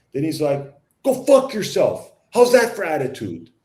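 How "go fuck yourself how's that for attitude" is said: mock angry retort. Driver insulting him before speeding off, mock angry. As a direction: fling the insult back.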